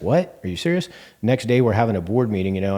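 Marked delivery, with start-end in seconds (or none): 0.0-0.9 can't believe what she's hearing; shocked disbelief. Retold or imitated. Retelling a board member's reaction, stunned disbelief. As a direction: jump way up in pitch, stunned. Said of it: "And she's like".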